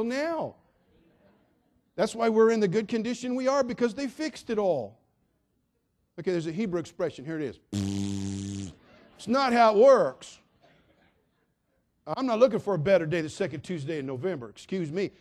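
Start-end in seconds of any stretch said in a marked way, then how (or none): none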